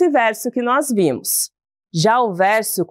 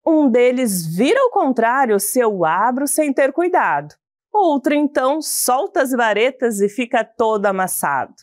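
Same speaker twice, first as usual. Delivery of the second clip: put-on reading a children's poem aloud. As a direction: read the verses with a gentle lilt. Teacher reads a poem aloud. (leitura de poema infantil)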